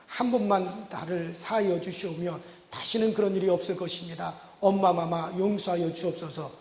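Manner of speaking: sly, hammed-up pleading in old court speech; playful sneaky son begging his angry mother; cheeky mock-royal plea. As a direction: beg like a courtier, tongue in cheek. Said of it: "능청맞게 한다는 말이".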